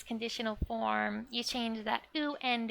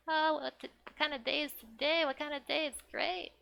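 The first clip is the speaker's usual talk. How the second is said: higher-pitched, brightly curious imitation; excited mock quote; 5 semitones higher than usual. Girl wondering what kind of day it is, excited. Voicing an excited character's question.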